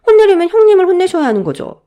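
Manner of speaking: high, loud aggrieved protest; indignant outburst. Acted. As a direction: burst out at being wrongly blamed. Indignant protest in family quarrel.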